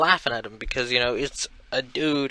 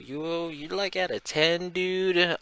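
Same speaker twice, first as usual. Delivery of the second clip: incredulous high; 6 semitones higher, 4 dB quieter, slower than usual. Retold or imitated. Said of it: "And Mark's like".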